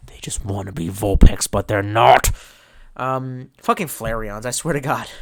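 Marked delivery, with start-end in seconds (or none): 0.1-2.3 whisper. Real, not acted. Whispered aside.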